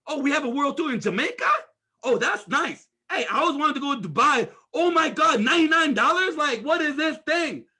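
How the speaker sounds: imitating a thrilled new partner; excited new recruit. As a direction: gush like a recruit finding perks. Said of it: "that person's excited".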